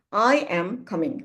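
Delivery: falling tune on coming; falling answer tune. Shown as a demonstration. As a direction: settle the answer downward. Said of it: "Coming is going down".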